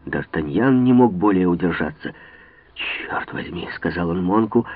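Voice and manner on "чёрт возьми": hushed hostile whisper; hostile hiss. A narrator's reading. D'Artagnan whispers angrily at Monk. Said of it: "враждебно взглянув на него".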